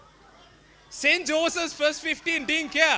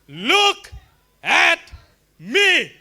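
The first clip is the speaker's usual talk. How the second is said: higher, louder belt, word by word; belted call; 5 semitones higher, 6 dB louder, much slower than usual. Retold or imitated. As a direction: belt it out with everything you have. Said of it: "I belted with the voice in me".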